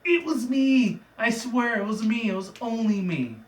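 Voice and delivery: a pony desperately taking the blame; frantic confession. Retold or imitated. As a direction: blurt it out in a panic. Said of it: "is like".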